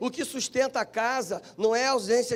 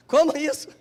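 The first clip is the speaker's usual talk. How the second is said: retold alarm, higher and louder; alarmed reaction; 4 semitones higher, 6 dB louder than usual. Preacher replaying his reaction to bad news at home, alarmed. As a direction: react with a burst of startled disbelief.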